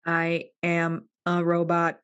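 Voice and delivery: slow even robot syllables; even machine gun syllables. Shown as a demonstration. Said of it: "You gotta say it like this".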